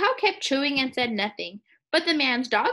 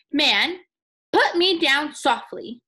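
slow pleading branch voice; 7 dB louder, slower than usual. Acted.

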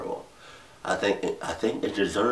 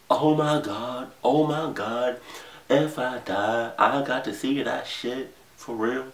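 lightly acted awe, higher pitched; imagined inner voice; 6 semitones higher than usual. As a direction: voice his amazed thought, slow and raised in pitch. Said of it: "I'm thinking in his mind".

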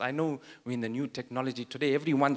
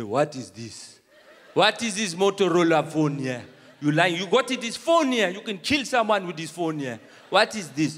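mock robber; 4 dB louder than usual. Robber mocking the old phone.

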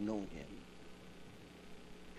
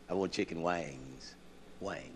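undignified take; 7 semitones lower, 9 dB quieter than usual. Shown as a demonstration. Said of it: "That's too dignified".

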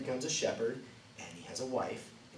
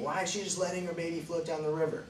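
skeptical listener; 8 semitones higher, faster than usual. Retold or imitated. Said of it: "I know you're thinking".

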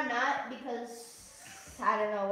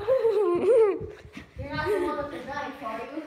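mock menacing; 5 dB louder, slower than usual. Playful threat game.

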